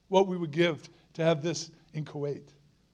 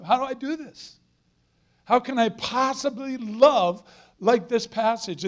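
voicing a doubt; 5 semitones higher than usual. Preacher voices the listener's doubt.

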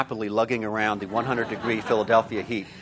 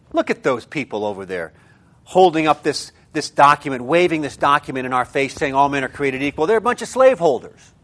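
mock indignation; 2 semitones higher, 4 dB louder than usual. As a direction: quote their accusation with rising indignation. Voicing critics across the Atlantic.

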